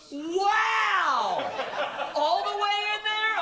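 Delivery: put-on high, loud, astonished child; amazed little girl. Daughter amazed at daddy's answer, high astonished child voice. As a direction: gasp it out in childlike wonder. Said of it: "looked back up at me and went".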